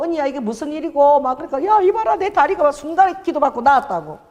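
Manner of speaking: high-pitched, amazed telling; excited retold news. Healed owner telling the kitchen about her leg, excited. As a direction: imitate someone breaking amazing news to friends.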